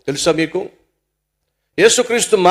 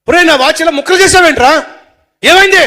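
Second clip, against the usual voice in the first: high, loud, outraged yell; angry outburst; 11 semitones higher, 10 dB louder than usual. Acted. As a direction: shout in disbelief at a friend who wrecked it. Friend confronts over broken watch.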